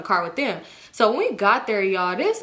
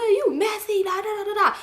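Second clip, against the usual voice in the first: mock Woe voice; 12 semitones higher than usual. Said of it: "So he like".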